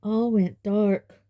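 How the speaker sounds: slow hoarse shudder. A narrator's reading. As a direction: rasp it out, shaken. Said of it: "Dudley said hoarsely, shuddering".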